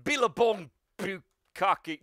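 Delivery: high, slow Australian battle call; attack cry. Acted. All Might calling his special attack, slow heroic cry. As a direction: draw out each word of the move.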